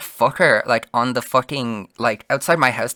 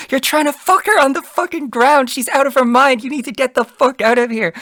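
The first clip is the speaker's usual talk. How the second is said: high, strained mock yelling; retold angry confrontation; 13 semitones higher, 4 dB louder than usual. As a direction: re-enact chewing him out, voice pitched way up.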